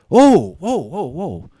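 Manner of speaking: loud high whoa, then easing down; imitated astonishment. Stranger hears a familiar name on the boat, mock astonished outburst. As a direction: burst out high, mimicking a startled man. Man startled on hearing the name.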